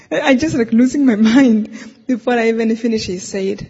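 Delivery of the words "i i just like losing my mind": laughing through the words. Real, not acted. Recalling her confusion to listeners, laughing. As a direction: let a laugh break in on "mind".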